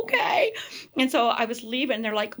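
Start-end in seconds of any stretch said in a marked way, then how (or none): 0.0-0.5 meek okay. Retold or imitated. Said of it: "I'm like".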